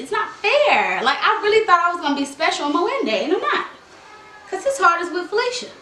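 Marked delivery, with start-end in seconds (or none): 3.2-5.7 heartbroken whine. Pretend.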